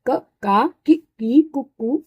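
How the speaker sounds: क, का, की, की, कु, कु sounded out one by one, clearly; reading the barakhadi aloud. Shown as a demonstration. Teacher shows students how to read each syllable, sounding them out. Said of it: "इसको ऐसे पढ़ते हैं".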